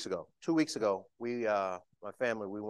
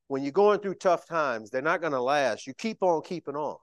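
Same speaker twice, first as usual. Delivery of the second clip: put-on quoting the old man; 6 semitones higher, 8 dB louder than usual. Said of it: "he used to always say".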